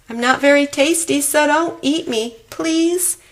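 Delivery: high, fast frightened begging; pleading child. Acted. Terrified child begging the monster not to eat him, high and fast. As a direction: beg for your life in a high little voice. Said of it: "I fell to my knees".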